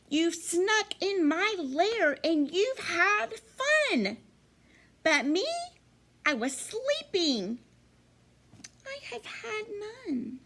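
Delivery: high, whiny mock crying, fading to a weak wail; blubbering bear. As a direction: wail it like a hurt, left-out bear. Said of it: "he whimpers and he moans and he wails".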